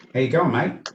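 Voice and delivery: lightly put-on Australian greeting; casual mock Australian accent. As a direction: greet in an Aussie accent at talking volume. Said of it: "How you like my character voice".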